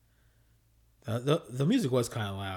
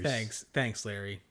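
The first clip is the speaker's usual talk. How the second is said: sarcastic; 2 semitones lower, 4 dB quieter, slower than usual. Retold or imitated. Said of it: "She can sense the sarcasm".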